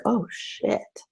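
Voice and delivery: breathy whisper of dawning alarm; whispered realization. Retold or imitated. In the car, realizing her pattern, whispered oh shit. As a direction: whisper it as it dawns on you. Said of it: "I was like".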